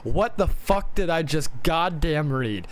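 slow, stressed-out disbelief; incredulous. Real, not acted. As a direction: drag out the baffled question. Reacts in disbelief to the book.

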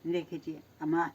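speaking without teeth; toothless, gummy speech. Real, not acted. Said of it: "ama dişlerim yok".

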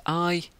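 I as a short "ih"; final I like the start of igloo; short I sound. Shown as a demonstration. Teaching Latin letters, I as short "ih". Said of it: "like igloo".

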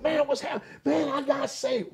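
high-pitched retold exclamation; excited greeting. Convert telling workmates he got saved, excited.

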